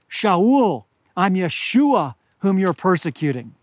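ordinary talk

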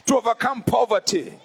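rising preacher's cadence; preaching. Real, not acted. Preacher to congregation, preaching in earnest. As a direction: preach it with full force. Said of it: "I feel like preaching".

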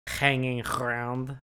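slow mock Russian accent. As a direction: drag it out like a Russian gambler. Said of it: "Malkovich's fake Russian accent".

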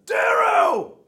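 very high, loud, drawn-out goblin yell; gasp, then holler like a goblin. Acted. Severo calling out to Darrow, high goblin-y shout. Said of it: "Goblin-y, like you did the first time".

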